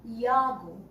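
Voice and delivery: "Yago" begun with a y sound; pronounced Yago. Shown as a demonstration. Teacher showing the class how to say the surname, "Yago" with a y. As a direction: say "Yago" slowly, opening on a y. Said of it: "we will pronounce it as".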